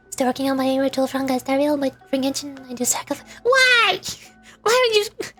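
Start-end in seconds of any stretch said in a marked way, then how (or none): 3.4-5.3 high-pitched, startled protest; appalled disbelief. Real, not acted. Streamer reacting to a viewer's sacrifice ritual, appalled. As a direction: leap up high, aghast but amused.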